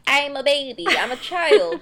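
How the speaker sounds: mock-indignant, pitch rising; mock childish protest. Co-host mocking the reckless heroine, childish protest. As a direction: whine it playfully, climbing at the end.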